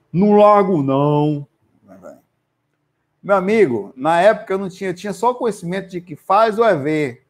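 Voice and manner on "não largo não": heavy, thick, dropped deep voice. Retelling what the spirit answered when told to let go: imitating a thick deep voice. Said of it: "Aquela voz grossa".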